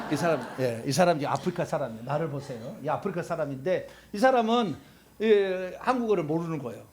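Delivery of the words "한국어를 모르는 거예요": normal talking voice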